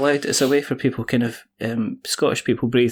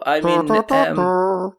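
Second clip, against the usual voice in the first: trumpet imitation; 7 semitones higher, 3 dB louder, much slower than usual. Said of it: "That was me blowing my trumpet".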